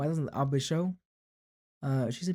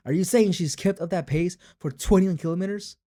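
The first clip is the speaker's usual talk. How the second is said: surprised; 5 semitones higher, 6 dB louder than usual. Acted. Character reacts in disbelief.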